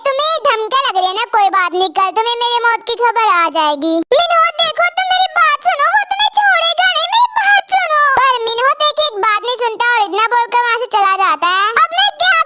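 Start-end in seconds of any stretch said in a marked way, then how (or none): 1.3-3.9 low, brooding male threat; a hint of a threatening man; lightly lowered male voice; lightly voiced sulking Minho. 4.2-8.0 high, pressing plea; high urgent warning; urgent pleading. Acted.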